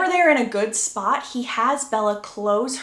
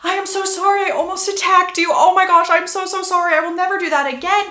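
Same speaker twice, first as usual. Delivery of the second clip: high, loud, rushed apologising; new vampire frantically apologising to her husband; frantic apology; 8 semitones higher, 6 dB louder, faster than usual. Retold or imitated. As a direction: gush out sorry in a panic. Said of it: "Bella just starts apologizing".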